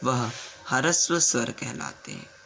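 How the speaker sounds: slow, measured dictation pace; teacher dictating a definition word by word. Shown as a demonstration. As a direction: spell it out slowly so students can write. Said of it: "लिखिए परिभाषा".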